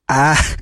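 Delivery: mock scream. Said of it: "Rolls into the class going".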